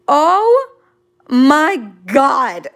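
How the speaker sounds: drawn-out, loud oh my God; overwhelmed delight. Real, not acted. Streamer asked to talk about Japan, thrilled.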